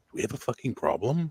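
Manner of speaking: whispered line. Acting out grabbing someone by the throat and leaning in close: whisper. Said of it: "and whisper".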